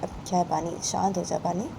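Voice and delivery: gently calm her down; quiet reassuring friend; soothing friend. Acted. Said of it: "बानी की friend बानी बोलती है".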